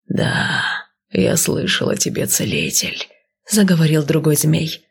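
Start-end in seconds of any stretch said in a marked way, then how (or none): 0.1-3.1 serpent creature voice. Acted. Another snake speaks.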